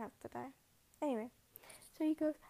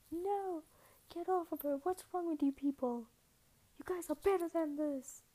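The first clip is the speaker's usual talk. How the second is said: higher, indignant retold telling-off; mock scolding; 5 semitones higher than usual. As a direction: act out granny breaking up a gang. Granny scolding the gang.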